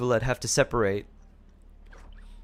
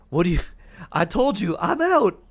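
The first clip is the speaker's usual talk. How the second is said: defiant shout; 6 semitones higher, 6 dB louder than usual. Retold or imitated. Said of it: "You're like".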